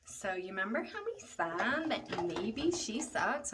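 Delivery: sly told-you-so. Retold or imitated.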